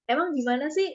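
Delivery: wondering aloud, ends rising; curious questioning. Shown as a demonstration. Demo of an intriguing opening line, curious tone. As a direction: pique the listener's curiosity. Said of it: "Jadi penasaran".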